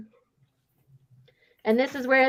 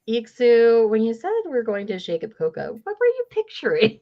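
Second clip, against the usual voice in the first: incredulous question; 3 semitones higher than usual. Retold or imitated. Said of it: "And Yoon is like".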